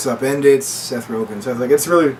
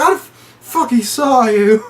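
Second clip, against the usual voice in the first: put-on voice; 10 semitones higher, 4 dB louder, slower than usual. Odd voiced quote.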